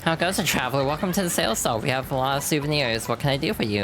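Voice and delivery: lightly voiced souvenir seller; shop clerk. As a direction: greet the traveler like a stall keeper. Shopkeeper voiced.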